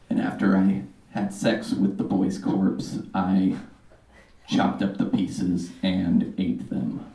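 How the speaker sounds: low, soft, calm killer confession; softly confessing serial killer; Jeffrey Dahmer. Pretend. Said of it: "my impression of Jeffrey Dahmer".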